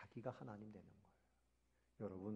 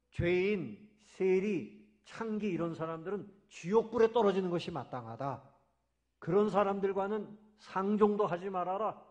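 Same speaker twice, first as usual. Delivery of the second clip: self-righteous Jews; 3 semitones higher, 5 dB louder than usual. Retold or imitated. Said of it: "유대인들은".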